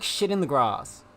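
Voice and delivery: GRASS with a long British "ah"; British pronunciation. Shown as a demonstration. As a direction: say GRASS as "grahs", British style. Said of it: "The British way".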